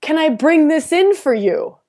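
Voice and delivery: lightly voiced knowing shaman; shaman woman's voice. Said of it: "she says".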